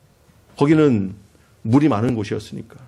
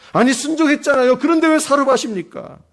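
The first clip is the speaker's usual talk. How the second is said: peaking protest; 12 semitones higher than usual. Retold or imitated. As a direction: let the complaint break out high. Elijah's complaint peaks.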